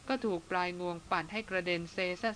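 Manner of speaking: plain reading voice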